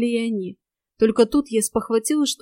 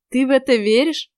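mildly mocking question, pitched up; sarcastic; 4 semitones higher, 4 dB louder than usual. A narrator's reading. Лис doubting his companion's hope, mildly sarcastic. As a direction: ask it with a touch of sarcastic disbelief, higher. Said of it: "с сарказмом усмехнулся Лис".

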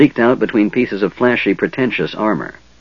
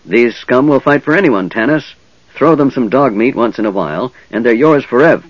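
shrill kender voice; 4 semitones higher, 3 dB louder than usual. Acted. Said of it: "Tasselhoff's shrill voice rang out".

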